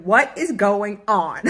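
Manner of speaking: slow, loud alarmed call; mock shout. Calling out to family at the table in a loud alarmed shout. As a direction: yell across the table in disbelief. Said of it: "I'm like".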